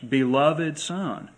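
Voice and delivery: slow, solemn voice of God from heaven. Acted. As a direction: proclaim it slowly, like a voice from heaven. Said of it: "a voice came out of heaven and said".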